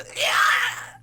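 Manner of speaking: loud harsh mock scream; imitated kill noise. Describing a movie kill to co-host, mock scream. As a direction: blurt a rough "yaah" noise.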